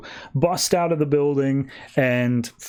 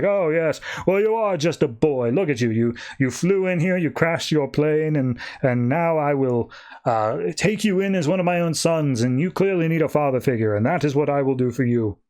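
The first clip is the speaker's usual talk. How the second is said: pompous king; 2 semitones higher than usual. Acted. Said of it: "pompous king guy".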